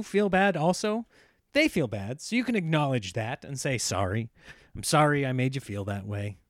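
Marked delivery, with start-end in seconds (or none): 3.8-6.4 lower, earnest sorry; sincere apology. Shown as a demonstration. Husband shows wife the real apology, sincere and lower. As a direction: say it like you mean it. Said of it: "Not, not some kinda weak apology".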